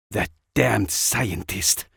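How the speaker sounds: slow, disgusted inner thought. Acted. Anna thinking of the scientist who hurt Jack, disgusted. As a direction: spit it out slowly with contempt. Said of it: "Anna thought with disgust".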